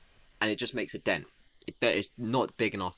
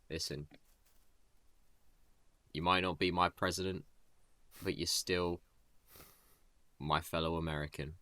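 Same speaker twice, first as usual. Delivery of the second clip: softly acted heartfelt speech, with pauses; touching, heartwarming; 2 semitones lower, 3 dB quieter than usual. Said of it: "touching, heartwarming, you know".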